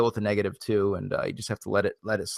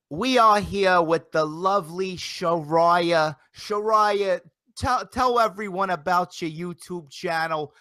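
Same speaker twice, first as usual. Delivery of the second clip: high, slow, drawn-out wrestling promo voice; over-the-top promoter gushing, high and slow; Vince Russo impression; 5 semitones higher than usual. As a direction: ham up the Russo schmooze, pitched high and stretched. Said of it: "my Russo impression".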